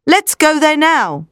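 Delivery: high, drawn-out urging; eager cry. A narrator's reading. Arthur wants to go to the chapel, eager cry. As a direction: push them to leave, pitch lifted. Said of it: "cried Arthur".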